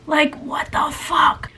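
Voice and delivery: slow, drawn-out what the fuck; exasperated at the lost files, slowly; stunned disbelief. Real, not acted. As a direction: stretch it out in disbelief. Files missing after hours editing.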